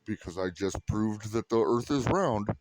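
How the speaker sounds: fast mock flat earther conceding. Flat earther realizing he proved the earth round, rushed mock. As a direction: rattle it off hurriedly. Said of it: "flat earthers ... go".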